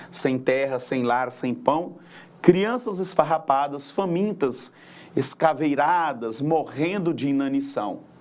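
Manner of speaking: lightly recited cordel verse; poem recital. Acted. (declamação leve de cordel)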